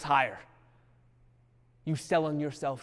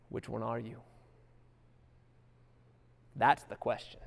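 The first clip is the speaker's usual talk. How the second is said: quiet question; 3 semitones lower, 5 dB quieter than usual. Real, not acted. Rhetorical question repeated.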